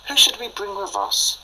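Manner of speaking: breathy high question, almost whispered; high whispered wonder. Retold or imitated. Friends planning an outing, hushed high musing. Wondering aloud who to bring.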